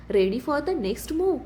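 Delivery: drawn out slowly, calm menacing smile in it; villain on the big screen slowly repeats his challenge; slow taunting challenge. Acted. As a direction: savour every word, unhurried threat. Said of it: "शांत स्मित".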